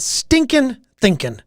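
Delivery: slow, drawn-out quote of a mentor's saying; quoting Zig Ziglar. Retold or imitated. Coach quoting Zig Ziglar's saying to viewers, slow and drawn out. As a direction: savour each word as the hero said it. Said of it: "He had this saying said".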